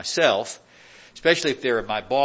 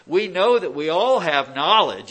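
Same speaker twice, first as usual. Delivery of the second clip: sarcastic; 4 semitones higher, 6 dB louder than usual. Retold or imitated. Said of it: "I think that's a sarcastic statement".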